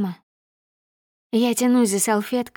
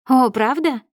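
feigned wide-eyed astonishment, higher and louder; mock surprise; 4 semitones higher, 4 dB louder than usual. A narrator's reading. Mocking her ex about his sudden visit, fake astonishment. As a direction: overplay the surprise with sarcasm. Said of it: "Наигранно я округляю глаза".

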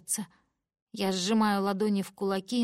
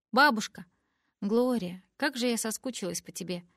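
joyful greeting; 2 semitones higher than usual. Acted. Joyful reunion with grandmother.

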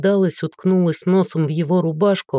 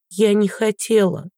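a touch of a sob, pitched up; sobbing; 4 semitones higher than usual. Acted. Daughter sobbing to her father, tearful and high. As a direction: daughter pleads through tears, higher and tearful. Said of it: "всхлипнула она".

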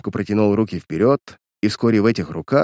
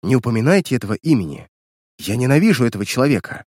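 fast, feverish pleading; faster than usual. Acted. Girl begging the detective not to name her uncle, fast and feverish. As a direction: rush the words out in agitation. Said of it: "лихорадочно проговорила".

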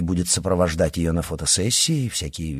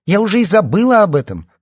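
high, loud, scornful brush-off; indignant; 12 semitones higher, 7 dB louder than usual. A narrator's reading. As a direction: toss it off in outrage. Liya still indignant.

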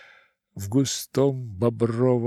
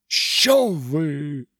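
thin howl; 4 semitones higher than usual. Acted. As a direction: howl in protest. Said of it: "взвыл тонкий голос".

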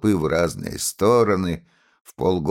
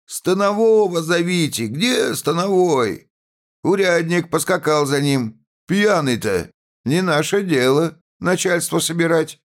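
peasants shouting; 10 semitones higher than usual. A narrator's reading. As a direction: shout over one another. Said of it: "Мужики вдруг закричали".

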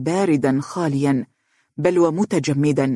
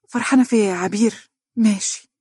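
reproachful; 5 semitones higher than usual. Acted. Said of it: "بعتاب".

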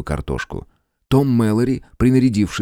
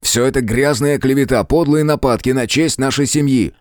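higher, heated protest; affronted, voice pitched up; indignant denial; 6 semitones higher than usual. A narrator's reading. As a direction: reject the slander with outrage. Outraged denial of a family slander.

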